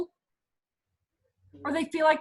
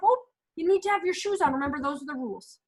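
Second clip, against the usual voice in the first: calm matter-of-fact. Shown as a demonstration. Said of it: "it can be said just like that".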